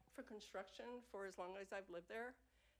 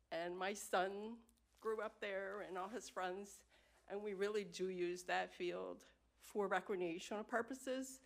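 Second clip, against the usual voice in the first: steady voice with shaky moments; 5 dB louder than usual. Real, not acted. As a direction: voice wavering with feeling. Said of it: "I'm a little emotional".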